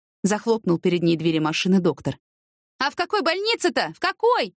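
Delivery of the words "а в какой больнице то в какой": high, urgent cry at normal volume; calling out. A narrator's reading. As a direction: call desperately after someone leaving. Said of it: "крикнула Яна". (отчаянный высокий выкрик вдогонку)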